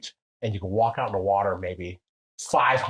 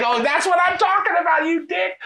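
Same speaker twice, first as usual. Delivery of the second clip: much higher and louder, gleeful teasing; excited buddy; 7 dB louder than usual. Retold or imitated. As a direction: squeal it like a delighted friend ribbing you. Friend cheering his Pele comment.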